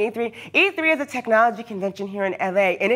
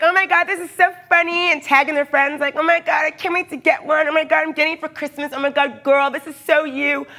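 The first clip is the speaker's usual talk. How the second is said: mock gushing commenters, pitched up; gushing fans; 6 semitones higher than usual. Mocking commenters tagging friends, a gushing higher voice. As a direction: ham up the squealing fan girls. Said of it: "people were like".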